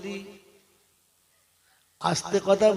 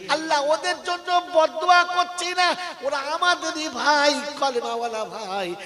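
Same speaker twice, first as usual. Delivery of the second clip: pleading prayer; 4 dB louder than usual. Acted. Acted night prayer to Allah.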